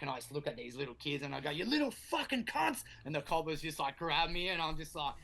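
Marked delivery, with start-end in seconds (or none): 1.5-2.8 exasperated insult. Retold or imitated. Insulting the kids who snitched.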